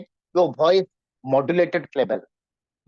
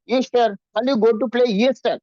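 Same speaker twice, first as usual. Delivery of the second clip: confident; 5 semitones higher than usual. Shown as a demonstration. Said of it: "you are very confident".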